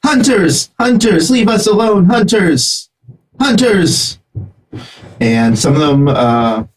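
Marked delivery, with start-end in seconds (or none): 0.0-4.2 creature voice. Acted.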